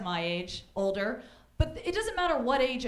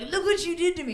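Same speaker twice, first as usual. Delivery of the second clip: smug guy; 8 semitones higher, 6 dB louder than usual. Retold or imitated. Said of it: "It's like".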